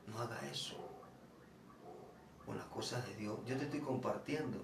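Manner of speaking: quietly stern, don't mock God; retelling how he rebuked the mocking brother, firm but soft; firm authority. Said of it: "con algo de autoridad".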